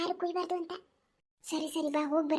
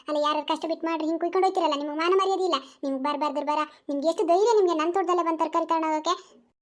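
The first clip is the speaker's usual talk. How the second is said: put-on scolding old granny heaping curses, louder; cursing granny; 4 dB louder than usual. Old granny cursing women who stole vegetables, angry. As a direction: rant and curse the thieves.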